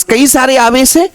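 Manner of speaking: ordinary talk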